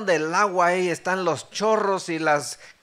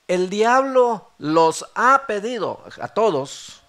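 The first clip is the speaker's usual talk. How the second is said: loud, slow, raised warning; slow emphatic declaration at raised pitch and volume; proclaimed warning; 4 semitones higher, 7 dB louder, slower than usual. Retold or imitated. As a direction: announce it gravely to the whole group, drawing out each word.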